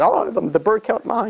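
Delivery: put-on child's voice. Child's complaint.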